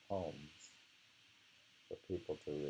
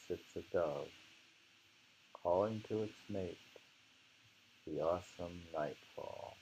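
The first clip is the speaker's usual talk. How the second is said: poem recitation. Acted. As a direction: savour each image as you recite. Rereads the poem aloud.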